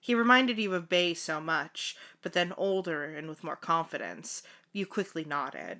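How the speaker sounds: measured fanfiction read-aloud; story narration. A narrator's reading. Narrator telling the housekeeper's story, measured read-aloud. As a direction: narrate it evenly, like an audiobook.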